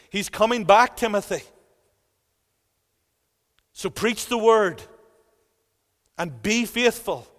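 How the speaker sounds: emphatic, driving sermon delivery; urgent preacher's exhortation; forceful preaching. Real, not acted. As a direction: press each phrase home to the congregation.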